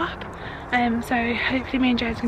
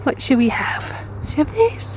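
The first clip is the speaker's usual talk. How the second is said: put-on baby talk; 3 semitones higher than usual. Talking to baby son.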